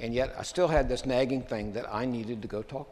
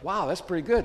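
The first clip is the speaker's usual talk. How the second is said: mock-impressed wow, pitched higher; 8 semitones higher, 5 dB louder than usual. Classmates praising his rank, mock impressed. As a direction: sound a little impressed. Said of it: "everybody goes".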